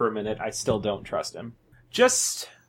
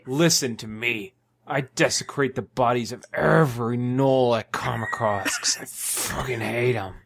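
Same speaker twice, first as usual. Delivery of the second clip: angry outburst; 2 semitones lower than usual. Acted. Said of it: "calm down".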